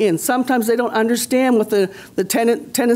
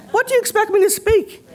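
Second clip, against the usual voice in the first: indignant; 10 semitones higher than usual. Real, not acted. Indignant retort at microaggression.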